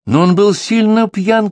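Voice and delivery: high, loud, slow cry of protest; shout. A narrator's reading. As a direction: blurt it out in alarm. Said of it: "крикнула Тереза".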